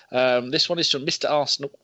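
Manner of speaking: talking through hiccups. Real, not acted. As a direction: hiccup while you read. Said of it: "I don't know why I keep hiccuping".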